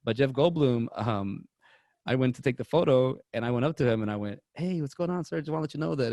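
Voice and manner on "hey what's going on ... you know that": slightly higher, eager fan greeting; lightly acted starstruck hello; mild retold excitement. Fan greets the actor at photo op, mildly excited. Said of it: "you get excited".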